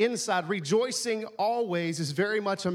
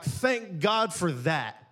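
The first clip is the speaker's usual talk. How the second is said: mock thanks; much slower than usual. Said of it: "you're like".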